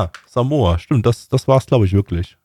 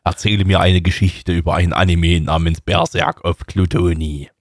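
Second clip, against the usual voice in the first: ringing metallic sword voice; 4 semitones lower than usual. Acted. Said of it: "sprechende Schwert".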